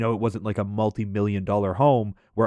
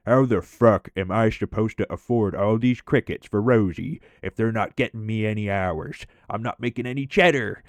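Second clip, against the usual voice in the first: lightly voiced grumbling coworker; mild mock whine about money; imitating Mike. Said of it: "He'd be like".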